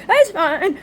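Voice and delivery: loud brushing-off; it's fine, pushed high and loud; insistent denial. Retold or imitated. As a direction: brush off the worry loudly. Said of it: "Like, I'm".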